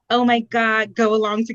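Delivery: light mocking voice of a go-along girl; mock meek girl. To listeners, mocking the soft-spoken type, lightly voiced. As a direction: mimic a timid people-pleaser. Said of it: "I have never been a soft-spoken".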